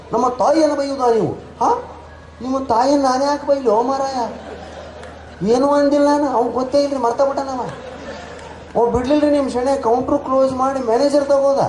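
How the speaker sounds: a hurt Udupi clerk protesting. Retold or imitated. Shenoy complains to the manager. (Udupi ಗುಮಾಸ್ತನ ಎತ್ತರದ ನೊಂದ ಧ್ವನಿ)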